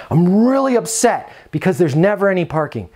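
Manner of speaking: upset tenant. Retold or imitated. Tenant complaining to the manager about parking, mild mock upset. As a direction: act the complaining resident, lightly. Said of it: "Repeat back to them".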